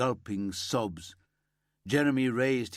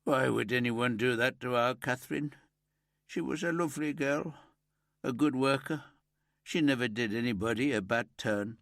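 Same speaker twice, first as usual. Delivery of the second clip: higher, grief-choked father; grieving moan; 3 semitones higher, faster than usual. Acted. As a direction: plead through the grief. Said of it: "Jeremy moaned".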